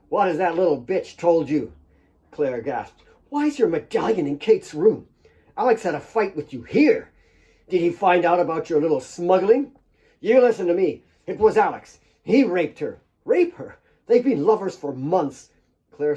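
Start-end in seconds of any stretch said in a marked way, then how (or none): 0.1-1.7 angry demand. Acted. Nick attacks Claire. 3.3-9.7 pained accusation. Acted. Claire confronts Nick in pain. 10.2-13.0 louder, hard threatening voice; angry threat. Acted. Nick threatens Claire while gripping her, loud and angry. 13.3-15.5 much higher, louder scornful disbelief; incredulous retort. Acted. Claire scoffs at Nick's lie, loud and incredulous.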